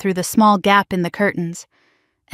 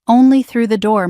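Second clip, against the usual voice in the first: firm insistence, "Only" hit first; emphasized; 2 semitones higher, 3 dB louder than usual. A narrator's reading. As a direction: lean hard on "Only". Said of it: "Marcus emphasized".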